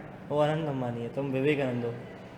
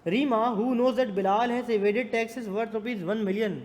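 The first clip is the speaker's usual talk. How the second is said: higher-pitched classroom read-out; reading question aloud; 6 semitones higher, much slower than usual. Real, not acted. Teacher reading a contract case to students, projected read-aloud.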